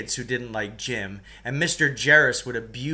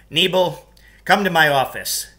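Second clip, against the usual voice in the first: gym teacher, not roaring; 5 semitones higher, 7 dB louder than usual. Acted. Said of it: "He didn't roar it in his usual way".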